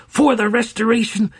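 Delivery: high, loud battle shout; war cry. Acted. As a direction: shout it as you throw.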